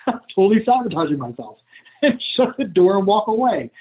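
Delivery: light laugh through the words; amused, laughing aside. Real, not acted. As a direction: chuckle while saying it.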